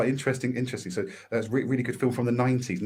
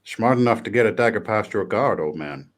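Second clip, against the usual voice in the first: bad Scottish accent; 5 dB louder than usual. Friend quizzing Damo on Braveheart, in a self-mocking bad Scottish accent. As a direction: attempt a Scottish movie line in a wobbly Scots accent. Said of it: "try this in my best Scot-, best, worstest Scottish accent".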